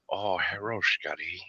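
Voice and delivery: hushed fake Asian accent; stereotyped Asian accent. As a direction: do a quiet caricature Asian greeting. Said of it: "the stereotypical Asian-looking guy".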